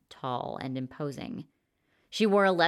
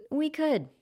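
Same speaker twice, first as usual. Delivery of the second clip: calm; 12 semitones higher than usual. A narrator's reading. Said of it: "said the blonde man calmly".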